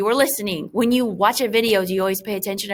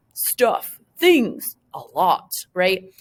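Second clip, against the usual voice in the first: mocking herself; much slower than usual. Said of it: "I'm making fun of myself".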